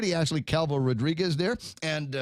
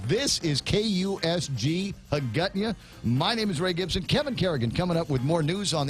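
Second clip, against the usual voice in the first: radio announcer; 3 semitones higher than usual. Acted. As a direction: announce the station over the music. Station ID over music.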